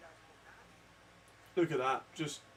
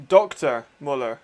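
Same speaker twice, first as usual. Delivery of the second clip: excited play call; 3 semitones higher, 7 dB louder than usual. Real, not acted. Live call of the interception.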